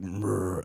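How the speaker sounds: soft, half-hearted growl noise; weak attempt at a monster growl; failed growl. Shown as a demonstration. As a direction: try a growl and fall short. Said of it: "I can't get the growl right".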